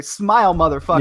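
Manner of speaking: threatening quote. Retold or imitated. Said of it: "Like it was threatening".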